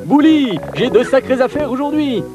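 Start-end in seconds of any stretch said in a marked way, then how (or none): 0.1-0.6 high loud call. Acted. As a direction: call his name brightly. Bouli Bagou calls out.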